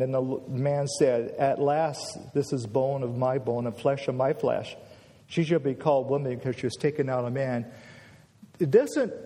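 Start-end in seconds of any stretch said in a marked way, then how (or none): 1.4-4.7 flat, matter-of-fact Bible reading; unmoved, level read-through; deadpan. Shown as a demonstration. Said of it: "We read it kind of deadpan". 5.3-7.7 brisk, level Bible reading; quick read with no excitement; deadpan. Shown as a demonstration. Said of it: "We read it kind of deadpan".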